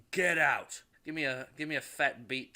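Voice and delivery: loud shouted order; yell. Retold or imitated. Rhodey yells at the party guests, loud. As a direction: throw everyone out with a yell. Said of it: "yells at everybody".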